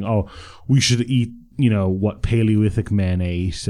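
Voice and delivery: slow, mock-earnest diet advice. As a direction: drawl it out like a know-it-all. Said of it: "you guys were saying".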